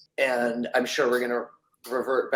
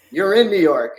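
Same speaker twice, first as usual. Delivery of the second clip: cabbie's retort; 5 semitones higher, 7 dB louder than usual. Retold or imitated. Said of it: "And he's like".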